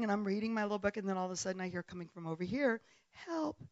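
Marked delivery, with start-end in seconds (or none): 3.3-3.6 high, softened distant call; mock cries for help. Retelling shouts heard while reading, mock cry for help. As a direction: call for help from far off, held back. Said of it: "people are shouting for help again".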